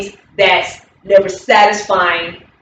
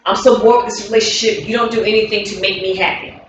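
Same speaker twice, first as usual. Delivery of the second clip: critical partner; faster than usual. Shown as a demonstration. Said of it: "I'll give you an example".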